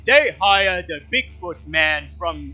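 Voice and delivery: big dim guide, happy and loud; simple-minded Bill. Acted. GM voicing Bill, recalling an easy job.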